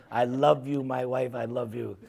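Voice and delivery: soft, low declaration of love to wife; tender aside. Pretend. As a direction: drop low and quiet, lovingly. Aside addressed to his wife.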